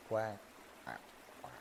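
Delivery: short duck quacks; quick little quacks. Pretend. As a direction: quack like a duck between verses. Duck quacks inside the song.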